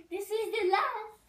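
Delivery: put-on firm French-accented vow. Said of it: "A, a French accent".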